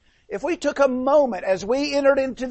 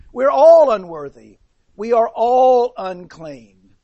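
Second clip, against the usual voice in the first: louder, slower, declaring unworthiness; emphatic confession; 7 dB louder than usual. Retold or imitated. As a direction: press each word home slowly. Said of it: "he says".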